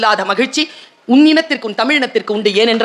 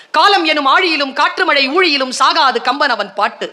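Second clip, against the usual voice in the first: recites the verse evenly, close to his usual voice; plain poem recital. Shown as a demonstration. Speaker reciting the son's poem to the audience, plainly. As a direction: reads it once in a plain, even way. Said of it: "எப்படியா?".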